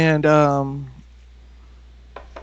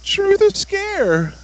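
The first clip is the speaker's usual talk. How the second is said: high, slow vampire voice; Dracula; 12 semitones higher, much slower than usual. Acted. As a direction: drag it out like a hammy Dracula. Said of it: "do you have to ask you like Dracula".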